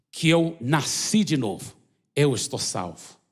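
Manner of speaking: slow, earnest prayer for the congregation to repeat; leading prayer. Acted. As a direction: pray it line by line so they can follow.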